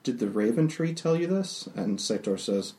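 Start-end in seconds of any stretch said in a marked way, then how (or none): 0.0-1.7 blushing Fury. Acted. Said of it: "blushes and says".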